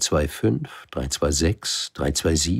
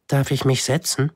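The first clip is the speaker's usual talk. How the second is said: put-on higher, shy child's question; timid little prince; 9 semitones higher than usual. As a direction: ask hesitantly. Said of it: "fragte der kleine Prinz schüchtern". (schüchterner kleiner Prinz, höher)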